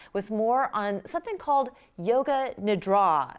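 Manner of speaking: lively, emphatic news-magazine read; scripted host introduction, key words stretched; TV presenter intro. Acted. Host reads the segment introduction.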